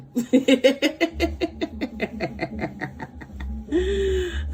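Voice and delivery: long cackling laugh trailing down; extended staccato laughter. Real, not acted. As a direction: let out a long rolling cackle. Laughs after coaxing act.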